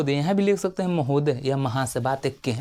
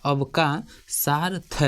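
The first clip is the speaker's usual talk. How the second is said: slow dictation; much slower than usual. Shown as a demonstration. Teacher dictating अवकाशार्थ to students, very slow. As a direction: stretch अवकाशार्थ out very slowly. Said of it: "teacher spells word for students".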